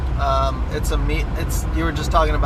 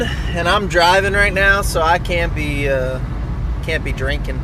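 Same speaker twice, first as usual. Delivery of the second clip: put-on Boston accent; 3 semitones higher than usual. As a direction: lay on a thick Boston accent. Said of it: "I'm putting my Boston accent on for this one".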